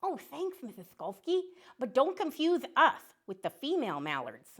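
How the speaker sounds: put-on a chirpy little duck saying hello to kids; friendly duck puppet.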